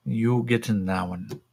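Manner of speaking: lightly voiced alien creature; a hint of creature voice; modified American. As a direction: order them about with a slight alien accent. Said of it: "in kind of that modified American".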